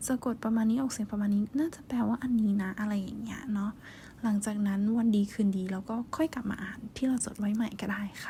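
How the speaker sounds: hushed, breathy whispered talk throughout. Real, not acted. Whispering her tips to her viewers, close and hushed. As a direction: keep it a gentle ASMR whisper.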